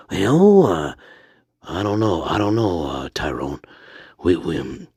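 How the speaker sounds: low, halting character voice; hesitant Stanley. Pretend. Stanley asks Tyrone what to do, low hesitant voice.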